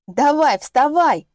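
loud, high coaxing; excited urging. Acted. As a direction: hurry her up cheerfully. Pulling sister up.

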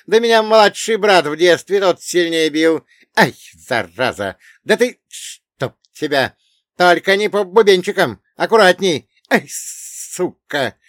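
high, loud yelping protests; dwarf's shouting. Acted. Dwarf being slapped on the floor, yelping shouts. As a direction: yell and yelp between the blows. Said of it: "кричал карлик".

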